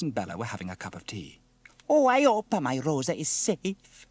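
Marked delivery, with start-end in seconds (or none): 1.9-4.1 high, slow, loud worrying; fretting Italian woman. Acted. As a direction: fret theatrically over a lost pet. Bella frets over her lost cat.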